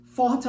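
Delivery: "Fought" with a clear F and open o. Shown as a demonstration. Teacher contrasting fought, sought, taught and thought. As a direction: say "Fought" starting on a crisp F. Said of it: "fought com som de F".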